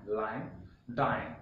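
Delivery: lion and dine said alike so they rhyme; rhyming pair. Shown as a demonstration. Teacher demonstrates the rhyme to class, carefully. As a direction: say lion then dine with the same ending. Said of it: "we need to pronounce it as".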